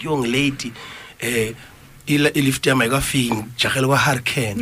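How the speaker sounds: quoting a woman in Zulu; lively retold Zulu phrasing; Zulu accent. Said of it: "and this woman was like".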